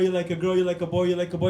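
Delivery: ordinary delivery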